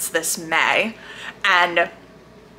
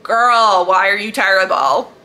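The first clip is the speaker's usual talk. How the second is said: exasperated scolding; 4 dB louder than usual. Retold or imitated. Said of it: "I was like".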